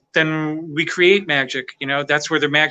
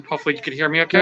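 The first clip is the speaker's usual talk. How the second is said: muffled behind a face mask; talking through mask; much faster than usual. Real, not acted. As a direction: speak through a covering mask. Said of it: "with the mask on 'cause I gotta keep the mask on".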